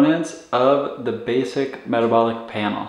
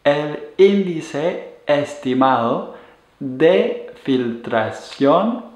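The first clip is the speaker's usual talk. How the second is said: slow model term. Shown as a demonstration. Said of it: "the E G F R in Spanish would be".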